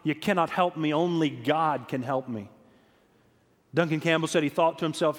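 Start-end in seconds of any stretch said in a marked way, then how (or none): 0.0-2.5 lightly voiced Scottish brogue; a retold line with a hint of Scottish. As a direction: imitate a young woman's Scottish accent. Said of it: "in her Scottish brogue".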